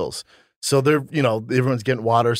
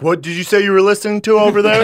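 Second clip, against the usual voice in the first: mock flirty question; 8 semitones higher, 8 dB louder than usual. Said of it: "Were you like".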